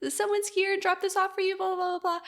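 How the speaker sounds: high voiced coworker; quoting coworker. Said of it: "she was like".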